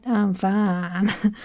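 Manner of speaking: stretched "faan" in a Southern Belle accent; Southern Belle drawl on fine. Shown as a demonstration. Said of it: "Fine is spelled F double A".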